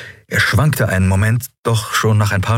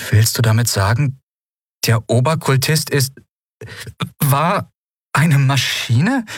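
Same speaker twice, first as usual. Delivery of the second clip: rising, higher, slowing in disbelief; baffled question; 6 semitones higher than usual. A narrator's reading. Lien asks her friends, rising higher in baffled disbelief. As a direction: ask it as if you can't believe it. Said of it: "fragte sie verdutzt".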